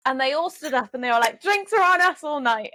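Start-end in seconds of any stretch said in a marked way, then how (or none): 1.4-2.7 raised, high-pitched imitation of cheering; excited cheer. Imitating bar crowd offering free drinks, excited cheer. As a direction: mimic a delighted crowd, much higher.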